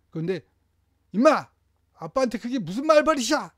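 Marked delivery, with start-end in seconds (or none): 1.1-3.5 higher, louder angry shout; shouting father. Shown as a demonstration. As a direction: yell at the child in a temper. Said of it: "이렇게 되면". (소리 지르는 아빠)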